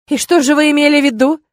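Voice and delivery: high, loud angry retort. Acted. Witch refusing the rector's excuse, high loud retort. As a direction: snap it back at him.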